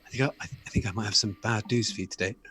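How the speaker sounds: lightly voiced reluctant expert; a hint of a hesitant expert, softly; antiques expert breaking bad news. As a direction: let them down quietly. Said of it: "He goes".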